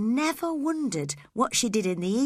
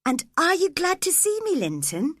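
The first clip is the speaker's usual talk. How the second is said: hopefully; 8 semitones higher than usual. Acted. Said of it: "she asked hopefully".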